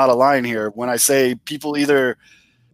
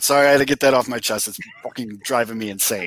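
tipsy, a bit loose; 4 semitones lower than usual. Real, not acted. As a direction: talk like a few beers in. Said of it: "And I'm getting drunk".

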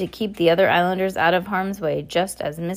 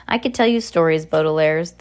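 muffled wheeze; 4 dB louder than usual. Acted. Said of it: "in a muffled wheeze".

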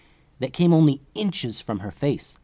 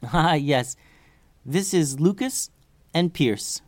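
a hint of a higher fairy voice; lightly voiced fairy; 4 semitones higher, slower than usual. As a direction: introduce friends in a slightly lifted fairy voice. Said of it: "said the Mist Fairy".

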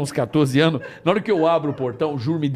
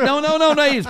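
high, urgent no-no-no; frantic denial; 8 semitones higher, faster than usual. Real, not acted. Correcting friends who misunderstood, frantic. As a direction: scramble to correct yourself. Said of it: "Pera, calma".

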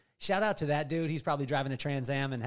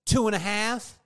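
louder, higher drawn-out warning count; stalling parent countdown; 6 semitones higher, 6 dB louder, slower than usual. Retold or imitated. Father counting at his son before a spanking, loud stalling warning. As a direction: stretch the count like a threatening parent. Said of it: "like every other parent".

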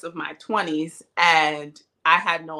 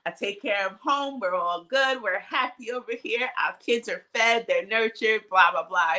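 higher-pitched, retold indignation; mock offended; 5 semitones higher than usual. Retelling her pushback to her children's father, mock offended. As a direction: act out a mildly upset defense. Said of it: "I was offended and I was really upset".

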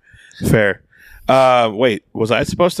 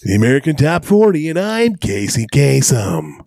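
Casey Kasem impression; 3 semitones higher than usual. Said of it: "That's not him".

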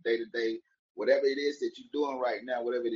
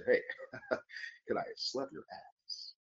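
mock whisper; 6 dB quieter than usual. Mock asking stranger crudely.

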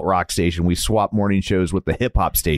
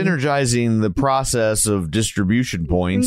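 corporate jargon voice. Pretend. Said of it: "I think that's what grown-ups say".

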